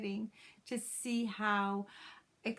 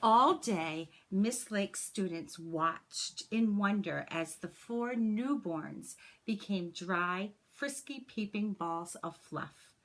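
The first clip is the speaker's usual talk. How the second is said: put-on gentle, expressive read-aloud for children; story narration; 3 dB louder than usual. A narrator's reading. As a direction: read it like a teacher sharing a picture book with the class. Reads a picture book to class.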